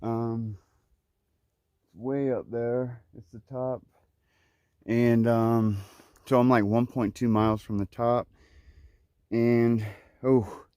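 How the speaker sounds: breathless, panting between phrases; winded from a steep climb; out of breath. Real, not acted. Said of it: "you can tell I'm out of breath".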